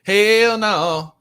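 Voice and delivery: loud, punchy refusal; a loud, flat-out no; emphatic hell no. Real, not acted. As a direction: slam the door on it.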